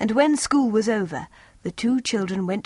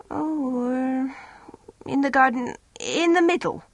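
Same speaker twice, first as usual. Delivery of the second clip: a touch higher, vague wife; lightly voiced wife; 4 semitones higher than usual. A narrator's reading.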